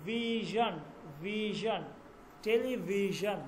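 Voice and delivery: ভিশন with a zh in the middle, as in English "vision"; teacher modelling the zh in টেলিভিশন; English zh sound. Shown as a demonstration. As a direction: draw out ভিশন to show its zh. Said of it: "উচ্চারণ করি না ইংলিশে".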